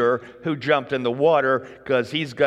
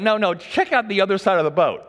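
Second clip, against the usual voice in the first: insistent Jesus; 5 semitones higher than usual. Retold or imitated. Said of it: "Jesus is going".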